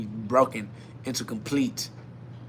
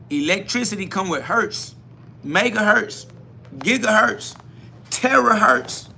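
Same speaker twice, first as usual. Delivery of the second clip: climbing hertz list; 6 semitones higher, 3 dB louder than usual. Acted. Escalating units, voice climbing.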